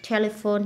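"Telephone" stressed on the first syllable. Shown as a demonstration. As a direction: put the weight on the start of "Telephone". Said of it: "nhấn âm một".

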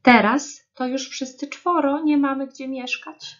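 storybook squirrel in a huff; huffy squirrel. A narrator's reading. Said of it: "fuknęła wiewiórka".

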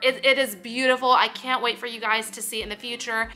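ordinary delivery

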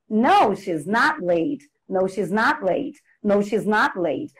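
"No, she's not late" as a repeated drill answer, falling at the end; intonation drill. Shown as a demonstration. Teacher modelling book exercises, intonation drill. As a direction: repeat "No, she's not late" like a textbook pattern, ending on a fall. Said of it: "work on intonation".

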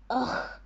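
breathy frustrated "ugh"; unvoiced ugh. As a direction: let out a voiceless grunt of frustration. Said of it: "The mango tree growled".

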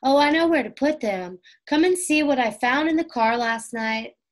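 eagerly calling the others to come see; excited cry. A narrator's reading. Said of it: "Suddenly, Violet cried".

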